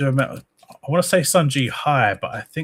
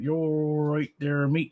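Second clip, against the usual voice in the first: put-on slow thick accent; 5 semitones higher, 3 dB quieter, slower than usual. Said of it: "you are really slow and thick accent".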